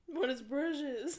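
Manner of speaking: slow giggly mock question; mocking laughing. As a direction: drag it out through giggles. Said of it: "laughing at Sydney's laughs".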